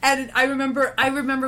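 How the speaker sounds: laughing through the words. Real, not acted. Telling the host the story, laughing. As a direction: chuckle as you start.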